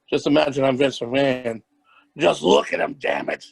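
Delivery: lightly voiced Vince McMahon, gruff boss; a hint of the wrestling boss; Vince McMahon impression. Imitating Vince McMahon for the podcast hosts, lightly voiced. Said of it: "I'm gonna do his impression".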